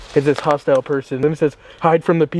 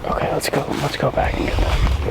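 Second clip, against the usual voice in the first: whispering. Real, not acted. Spooked, hushed retreat.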